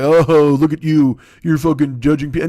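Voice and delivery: put-on jeering voice; mocking accuser. Comic voicing people who accuse him of judging, mocking. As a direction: mimic a scolding critic, loud at the start.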